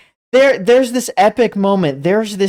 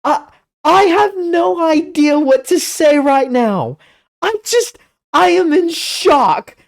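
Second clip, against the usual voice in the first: higher, speechless disbelief; overwhelmed shock; 8 semitones higher than usual. Real, not acted. Vlogger telling viewers he is in shock, higher and stunned. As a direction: reel at the twist.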